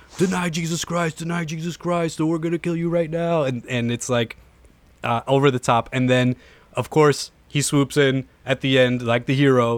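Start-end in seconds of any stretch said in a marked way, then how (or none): 0.1-3.4 threatening, menacing yell. Describing armed men grabbing a youth group, retelling their yell. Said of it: "They're all yelling".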